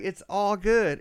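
lightly mocked female caregiver, high; reassuring nurse. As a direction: pitch it up to soothe, as a kindly carer. Nurse reassuring him, retold.

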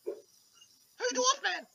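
very high, slow squeaky rat; baffled tiny rat asking; confused rat voice. Acted. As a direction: drag it out like a puzzled rat.

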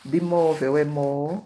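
teacher isolating "mó" loudly; stress on "mó". Shown as a demonstration. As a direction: punch out the stressed syllable "mó" for the class. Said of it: "a sílaba tônica das palavras".

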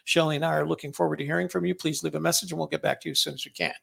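brisk, quick recorded phone greeting; voicemail greeting. Shown as a demonstration. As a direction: rattle off a voicemail greeting fast. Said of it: "I can leave a greeting".

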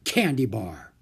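triumphant. Acted. Doctor's triumphant verdict.

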